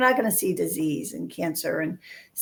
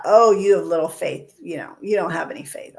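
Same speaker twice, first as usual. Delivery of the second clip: a bit louder, a stern teacher's reproach; mild scolding; 4 dB louder than usual. Retold or imitated. Jesus as some teach him, scolding Peter, mildly stern. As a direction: scold him lightly, half-hearted. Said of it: "I've heard it taught".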